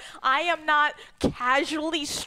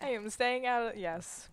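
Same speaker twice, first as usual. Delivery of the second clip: whispering; 5 semitones lower, 9 dB quieter than usual. Real, not acted. Player hushes to stay away.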